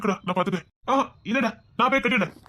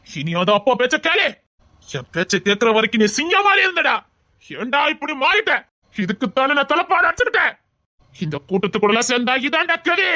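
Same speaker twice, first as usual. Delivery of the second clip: an angry father cursing his son's orphan wife; furious father; 3 semitones higher than usual. Acted. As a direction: rant at her with contempt. Father furious at daughter-in-law.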